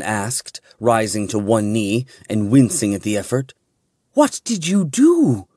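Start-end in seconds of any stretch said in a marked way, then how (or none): 4.1-5.5 growled demand. A narrator's reading. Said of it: "Riljana growled".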